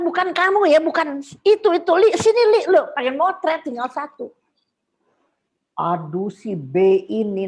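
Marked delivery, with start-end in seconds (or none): 0.0-4.3 high, loud call. Retold or imitated. Calling Lili for the last photo, high and loud. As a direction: brush him off and call her over. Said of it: "Aku cuma bilang".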